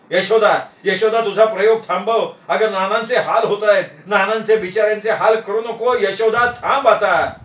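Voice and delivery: mild acted shout; half-shouted plea to stop; calling out loudly. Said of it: "मी जोरानं ओरडलो".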